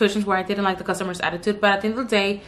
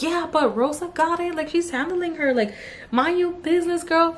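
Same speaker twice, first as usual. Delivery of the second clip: sassy scolding; 8 semitones higher than usual. Retold or imitated. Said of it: "I'm like".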